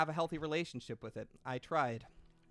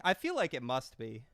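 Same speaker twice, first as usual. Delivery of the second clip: normal talking voice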